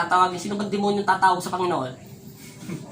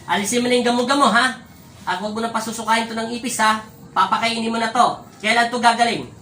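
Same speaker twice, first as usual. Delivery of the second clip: loud, high commanding call to the spirit; stern exorcist raising her voice at the spirit; forceful command; 3 semitones higher, 4 dB louder than usual. Real, not acted. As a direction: order the spirit out, full force. Healer commanding spirit loudly.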